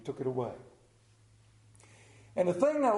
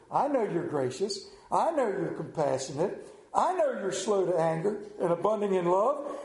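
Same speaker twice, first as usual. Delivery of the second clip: "know" lifted with a rise each time; stress on know. Shown as a demonstration. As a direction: lean on "know" in every line. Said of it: "Look, listen to those words".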